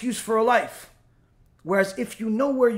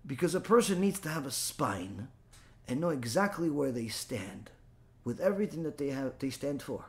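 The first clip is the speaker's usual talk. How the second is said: softer, lower, earnest; quiet conviction; 6 semitones lower, 10 dB quieter than usual. Acted. Rabbi quietly urging listeners to have a spine. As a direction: drop the voice to make it sink in.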